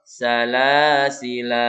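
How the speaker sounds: "salasila" ending on a drawn-out a; stop with long la. Shown as a demonstration. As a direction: hold the final a of "salasila".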